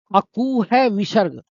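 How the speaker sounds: अकू है विसर्ग said slowly, word by word; slow recitation. Shown as a demonstration. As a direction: spell out the formula slowly for memorising. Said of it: "सब बोलेंगे". (सूत्र को धीरे-धीरे रटवाते हुए)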